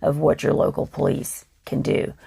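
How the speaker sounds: rough, gravelly tired voice; a worn gravelly voice. Real, not acted. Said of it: "I apologize for the gravelly voice".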